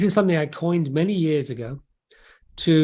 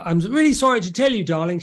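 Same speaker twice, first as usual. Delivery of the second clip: higher-pitched, lightly acted husband breaking news; confessing husband; 4 semitones higher, faster than usual. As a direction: play the husband owning up to his wife. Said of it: "the husband walks in and says".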